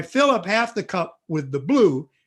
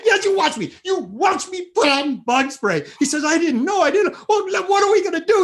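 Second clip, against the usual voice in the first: much higher, louder frightened protest; panicked kid; 10 semitones higher, 3 dB louder than usual. Retold or imitated. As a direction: squeal in fear at the dark.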